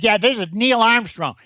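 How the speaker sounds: breezy showbiz boast as Bob Hope; Bob Hope impression. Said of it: "That impression is uncanny".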